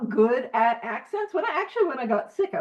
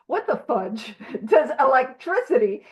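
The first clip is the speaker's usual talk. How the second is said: incredulous. Retold or imitated. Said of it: "I probably didn't soften it".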